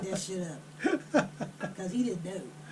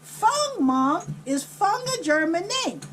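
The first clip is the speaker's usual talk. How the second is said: put-on higher, insistent child voice; little boy; 5 semitones higher than usual. Boy pressing Mom about the word, imitated high child voice. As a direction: imitate a boy repeating his question. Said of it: "he was only seven or eight".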